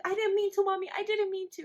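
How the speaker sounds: put-on high, loud little-kid protest; imitated pleading child. Son confessing to Mommy, high pleading imitation. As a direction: plead like a son caught telling.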